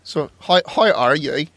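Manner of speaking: a hint of an Irish presenter; lightly attempted Irish broadcaster impression; Terry Wogan. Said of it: "That's my Terry Wogan".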